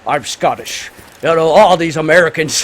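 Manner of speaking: Sean Connery. Acted. Movie reviewer mimicking an actor who keeps his own accent, mock Scottish. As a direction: put on a hint of a Scottish accent. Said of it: "Sean Connery is Scottish".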